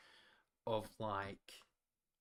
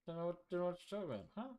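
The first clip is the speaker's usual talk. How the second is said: fast denial; 8 semitones higher, much faster than usual. Pretend. Playful denial.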